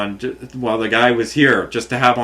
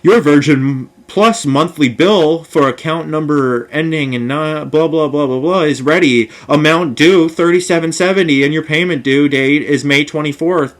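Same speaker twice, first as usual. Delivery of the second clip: reading the bill aloud with mock officialness, skipping parts with blah; a sarcastic recital of a billing notice; 3 semitones higher, 5 dB louder than usual. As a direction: drone the corporate text, waving off the details. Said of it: "And it says".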